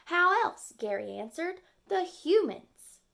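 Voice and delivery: knowing turtle friend. Acted. Friend answers in character.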